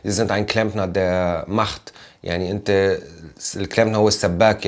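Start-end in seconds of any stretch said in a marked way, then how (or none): 0.1-1.9 slow, deliberate German; German quote. Retold or imitated. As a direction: spell out the German quote slowly. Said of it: "قال له".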